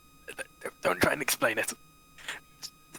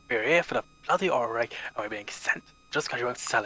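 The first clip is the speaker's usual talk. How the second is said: put-on old man whisper. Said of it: "went pretty well with the old man voice".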